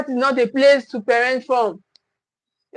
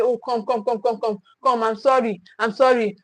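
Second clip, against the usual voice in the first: acted soothing apology; 3 dB quieter than usual. Guilty parent to a crying child after punishment, soothing apology. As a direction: play a parent gently making up.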